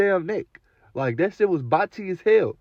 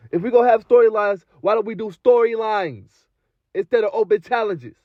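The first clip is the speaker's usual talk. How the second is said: higher, laughing repeat of the gripe; laughing complaint; 6 semitones higher than usual. Real, not acted. Fan repeats his gripe about open challenges, laughing. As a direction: laugh through the rhetorical question. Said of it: "repeated rhetorical complaint, laughing".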